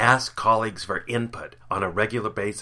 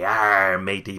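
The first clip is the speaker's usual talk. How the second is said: pirate growl; 5 dB louder, slower than usual. Pretend. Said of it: "International Talk Like a Pirate Day".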